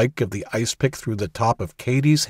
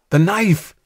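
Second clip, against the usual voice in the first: high, loud urgent cry; urgent shout; 10 semitones higher, 5 dB louder than usual. A narrator's reading. Jack shouting at Katie about the knife, high. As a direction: shout it out much higher.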